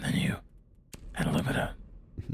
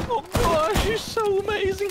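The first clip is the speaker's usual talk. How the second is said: put-on very high, loud gushing teen voice; teen from Monsters, Inc; 5 dB louder than usual. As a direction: gush like a starstruck teen. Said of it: "the teens in Monsters, Inc".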